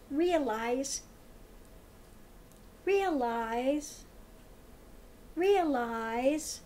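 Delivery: slow, drawn-out word with long gaps; mimicked droning repetition. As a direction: repeat REALIZE slowly, like a hypnotist. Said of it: "He says it over and over and over".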